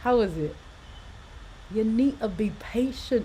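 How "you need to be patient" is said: loud put-on Scottish accent. Before going live, talking to the audience in a put-on Scottish accent. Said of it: "how was that Scottish accent?".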